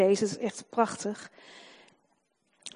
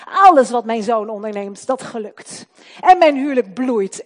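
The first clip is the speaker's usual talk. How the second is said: louder, bold proclamation of blessing; the preacher showing the congregation a bold proclamation of faith; confident declaration; 7 dB louder than usual. Shown as a demonstration. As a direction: declare it over your child like a faith confession. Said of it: "Wat voor woorden spreek je uit over je zoon?".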